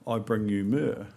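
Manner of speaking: put-on slow, careful little-kid recitation; slow child recital. Small wise man in the nativity play recites his line slowly.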